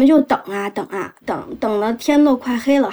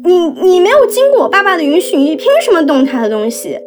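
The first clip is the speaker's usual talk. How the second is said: accusing mother; 4 semitones higher than usual. Retold or imitated. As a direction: throw the blame at her. Teen daughter blaming her mother.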